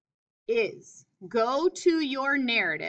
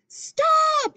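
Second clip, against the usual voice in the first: "Stop!" yelled very high and loud; teacher demonstrating Joe yelling "Stop!"; shouted stop; 6 dB louder than usual. Shown as a demonstration. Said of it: "yelled Joe".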